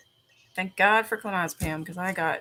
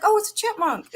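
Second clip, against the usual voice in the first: much higher cooing voice; cute high voice; 13 semitones higher, 5 dB louder than usual. Retold or imitated. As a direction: coo like at a baby. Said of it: "I'm like".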